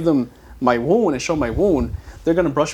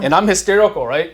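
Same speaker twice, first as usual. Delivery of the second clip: laughing; 6 semitones higher, 7 dB louder than usual. Pretend. Laughing while playing hysterical kid.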